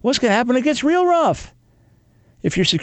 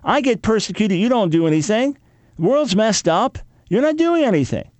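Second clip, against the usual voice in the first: much higher, pressing exasperated complaint; exasperated protest; 7 semitones higher than usual. Retold or imitated. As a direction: throw the accusation up at God. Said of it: "people are mocking you and say".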